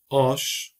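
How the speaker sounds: Aş with a long, stressed A; long Kurdish a. Shown as a demonstration. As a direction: stretch the A in Aş. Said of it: "aş kelimesi değirmen demek".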